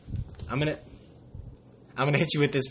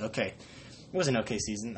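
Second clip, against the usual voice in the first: unimpressed; 3 semitones lower, 6 dB quieter than usual. Retold or imitated. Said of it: "I'm just like".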